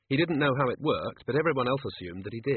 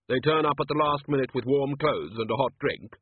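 Death's voice; 3 semitones higher than usual. Acted. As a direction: speak as Death. Death speaking.

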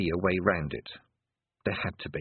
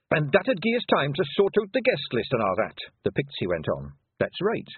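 Scottish Feegle voice; 6 semitones higher, 3 dB louder than usual. Acted. Rob Anybody Feegle voice.

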